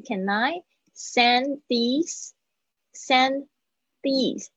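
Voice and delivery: slow "send these" with a barely touched d; slow model of "can I send these"; linked, light D. Shown as a demonstration. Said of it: "这个的很轻的，点一下".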